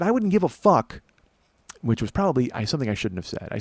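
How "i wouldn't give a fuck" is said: high-pitched, worked-up swearing; retold heated outburst. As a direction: reenact getting heated and blurting it out. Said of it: "I'm getting heated".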